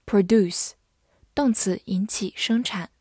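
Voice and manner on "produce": American verb "produce", ending like "doose"; American-accented "produce"; American pronunciation. Shown as a demonstration. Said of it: "美式发音".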